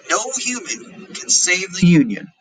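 slow quoted Southern leader. Retold or imitated. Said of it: "said another".

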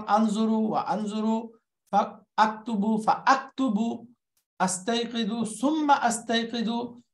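slow model phrase. Shown as a demonstration. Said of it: "teacher modelling".

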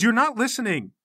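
high, loud exasperation; frustrated outburst. Acted. Leader tugging Sasha back, frustrated outburst. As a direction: burst out at her, voice jumping up. He grabs her, arguing.

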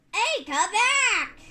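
high, loud, drawn-out yell; urgent high shout; calling out. Real, not acted. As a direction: holler after someone leaving. Calling after someone leaving.

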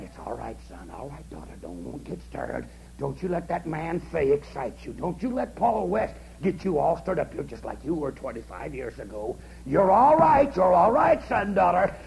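devil's mild, soothing reassurance. Acted. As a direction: coax them to sleep like a sly tempter. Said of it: "the devil's a-salving us".

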